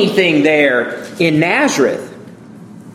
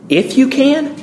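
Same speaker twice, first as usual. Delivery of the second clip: higher, incredulous echo; offended; 7 semitones higher than usual. Retold or imitated. Jesus repeating the father's doubt, offended. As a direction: throw his words back at him. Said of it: "he almost sounds a little bit offended".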